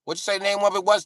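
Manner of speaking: put-on high, loud, rapid old white guy; old white guy impression. Old white guy asking the video's name, high and rapid. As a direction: fire it off in a high, insistent voice.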